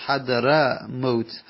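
very slow "حضر موت" as "hadra mot"; fatha on first part. Shown as a demonstration.

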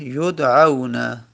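یدعون said slowly as yud-'au-na; slow, smooth yud'auna for یدعون; contracted form. Shown as a demonstration. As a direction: glide "a" into "u" in یدعون, no long alef.

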